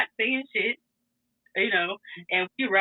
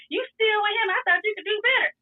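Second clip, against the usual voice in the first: mocking boyfriend; 11 semitones higher than usual. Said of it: "And he's like".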